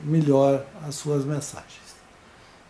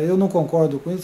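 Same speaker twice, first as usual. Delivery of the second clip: blunt disagreement; much faster than usual. Shown as a demonstration. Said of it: "ao invés de falar".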